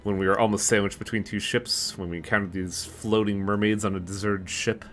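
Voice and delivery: measured, slightly softened read-aloud voice; story narration. A narrator's reading. Reading the sinners' story aloud to viewers, story narration. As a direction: narrate the story text evenly.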